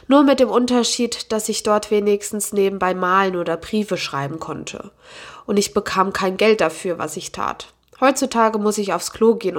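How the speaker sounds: steady novel reading with quoted lines lightly voiced; story narration. A narrator's reading. Booktuber reading an excerpt to her viewers, audiobook narration. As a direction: read the chapter to your viewers like an audiobook.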